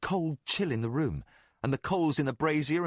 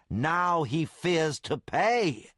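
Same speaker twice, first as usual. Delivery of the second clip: sudden certainty; 4 semitones higher, 3 dB louder, slower than usual. Acted. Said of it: "he said with sudden certainty".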